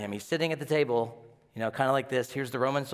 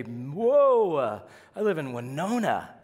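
higher whoa then a laughing shrug; mock awe; 3 semitones higher, slower than usual. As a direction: pretend to be amazed, then laugh it off. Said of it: "I say".

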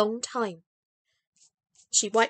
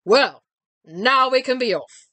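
cheerful call; 6 dB louder than usual. A narrator's reading. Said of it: "called to her in a cheerful voice".

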